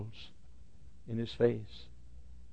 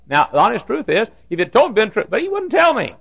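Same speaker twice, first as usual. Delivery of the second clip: raised, loud exclamation; emphatic preaching; 11 semitones higher, 9 dB louder than usual. Real, not acted. Preacher marveling at the pastor's silence, emphatic. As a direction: exclaim it with rising force.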